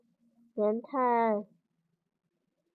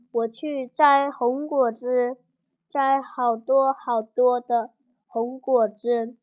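calling out; 5 dB louder than usual. Acted. Liangtai calls back to mother.

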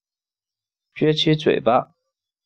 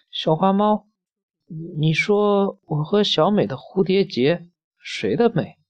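put-on little girl voice; 4 semitones higher than usual. Damei questions the kitten.

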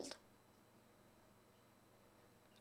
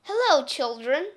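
sweet greeting; 4 semitones higher, 4 dB louder than usual. Acted. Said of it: "said in a sweet voice".

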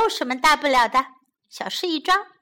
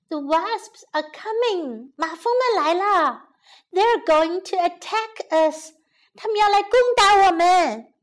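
higher, hurried alarm building at the end; urgent warning; 5 semitones higher than usual. Acted. Maya warning the bee queen, urgent and rising. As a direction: rush the news to the queen.

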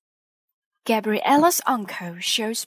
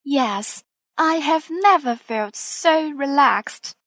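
sighing; 4 semitones higher, 5 dB louder than usual. A narrator's reading. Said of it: "sighs Mummy Pig".

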